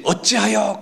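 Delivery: high, brief lament; imitating a habitual complainer; complaining cry. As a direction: toss out a mock wail of why. Moses' old complaint acted out.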